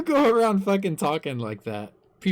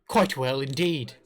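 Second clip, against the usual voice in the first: put-on British accent slipping into Australian; lightly faked British with an Australian slant; a wobbly try at British; attempted British accent; 3 semitones lower than usual. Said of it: "That makes you sound Australian".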